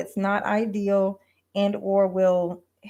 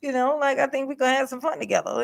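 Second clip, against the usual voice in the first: sincere confession; 5 semitones higher than usual. Shown as a demonstration. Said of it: "the way that you mean it is".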